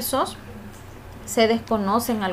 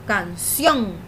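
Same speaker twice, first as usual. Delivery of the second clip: "canción" drawn out on its final syllable; "canción" pronounced to show its stressed last vowel; sounded-out word. Shown as a demonstration. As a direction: say "canción" deliberately, lengthening the stressed "-ción". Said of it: "pronunciar la palabra en voz alta".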